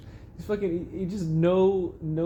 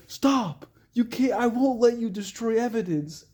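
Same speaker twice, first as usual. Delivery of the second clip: raised, higher-pitched imitation of a heroine's order; mock dramatic command; 6 semitones higher than usual. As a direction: act out a stern "stop right there". Acts out heroine confronting the arsonist.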